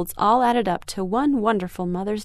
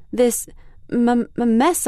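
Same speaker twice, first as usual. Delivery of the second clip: stammering, louder, holding back tears; choked up; 3 semitones higher, 3 dB louder, slower than usual. Acted. Girl telling mom the gift is ruined, choking up. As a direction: fight the lump in your throat. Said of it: "trying to swallow the lump in my throat".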